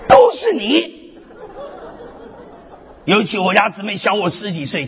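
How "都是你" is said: high, loud accusing cry with a laugh; mock blaming shout. Pastor mocking himself blaming his wife, loud playful accusation. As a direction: point the finger and yell it playfully.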